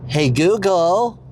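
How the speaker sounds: drawn-out attempt at an American accent; slow American-accented call. Shown as a demonstration. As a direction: put on an American accent, rising at the end. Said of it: "say it in an American accent".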